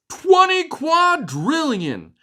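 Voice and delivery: high, slow chorus shout; ants shouting. Acted. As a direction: shout it together like tiny ants. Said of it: "the ants shouted".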